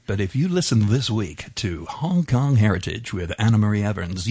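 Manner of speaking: Mid-Atlantic radio DJ voice; half-hearted Mid-Atlantic announcer read; Mid-Atlantic DJ accent. Shown as a demonstration. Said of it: "in a D J Mid-Atlantic accent".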